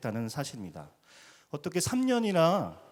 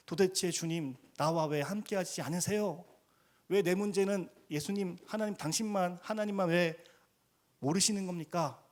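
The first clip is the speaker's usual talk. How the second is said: mock crying out; 5 semitones higher than usual. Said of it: "이렇게 소리 지르는".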